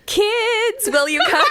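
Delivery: put-on very high, sing-song call to the kids; sing-song grandma voice. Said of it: "high-pitched sing-song tone".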